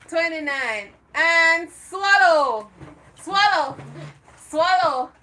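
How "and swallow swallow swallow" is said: slow, loud swallow command. Real, not acted. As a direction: draw out the call. Counting down final command.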